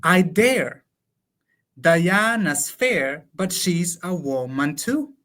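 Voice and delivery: slow, measured recital of the English lines; slow verse reading. Acted. To a colleague, reciting translated Lope verse slowly. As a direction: savour each line of the sonnet, slowly.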